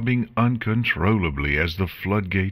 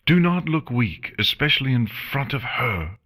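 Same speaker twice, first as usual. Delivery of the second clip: higher, tense self-scolding; Chrysalis scolding herself; 7 semitones higher than usual. Acted. Chrysalis urging herself not to cry, tense. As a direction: snap at yourself to stay strong.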